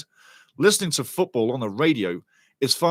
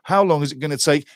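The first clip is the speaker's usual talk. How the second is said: ordinary talk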